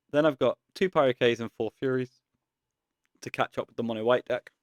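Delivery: talking through hiccups; words broken by hiccups. Real, not acted. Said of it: "Sorry, I got the hiccups then".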